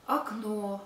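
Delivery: окно as light "ak-NO"; neutral first vowel. Shown as a demonstration. Teacher showing correct speech, окно as "akNO".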